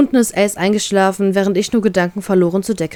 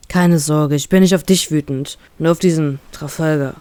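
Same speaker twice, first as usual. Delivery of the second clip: a touch lower, gently reassuring; lightly loving; 4 semitones lower than usual. Acted. Brother comforts his crying sister, lightly tender. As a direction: soothe her, anger aimed elsewhere. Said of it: "erklärt er mir liebevoll".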